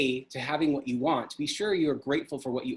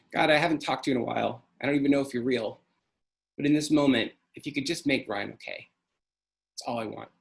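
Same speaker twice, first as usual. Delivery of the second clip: pleading; 3 semitones lower, faster than usual. Retold or imitated. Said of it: "I was pleading".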